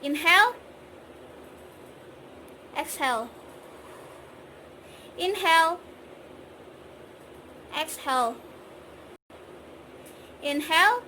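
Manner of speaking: inhale, exhale drill; breathing exercise cues. Shown as a demonstration. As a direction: count the breaths calmly. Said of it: "Contohnya seperti ini".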